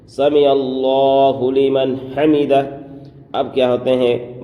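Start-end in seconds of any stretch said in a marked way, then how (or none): 0.1-2.6 slow سمع اللہ لمن حمدہ with a full, rounded اللہ; سمع اللہ لمن حمدہ drawn out, اللہ said heavy and full; correct recitation. Shown as a demonstration. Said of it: "یہ ہے صحیح تلفظ".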